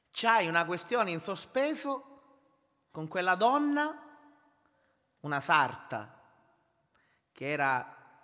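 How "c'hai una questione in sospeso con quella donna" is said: slow, raised solemn divine voice; voice of the Lord. Retold or imitated. God speaking to the kneeling drummer, slow raised voice. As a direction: deliver it slowly as God speaking. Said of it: "il Signore mi diceva".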